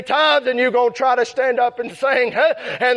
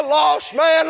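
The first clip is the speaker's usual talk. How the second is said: calling voice of the Lord. Retold or imitated. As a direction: call out Lost man like the Lord summoning. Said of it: "come by and said".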